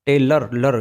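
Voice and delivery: टेलर, then the ending लर alone and clearly; टेलर, फिर अलग से लर; stressed ending. Shown as a demonstration. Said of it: "यहाँ भी ए का उच्चारण हो गया". (अंत लर पर ज़ोर)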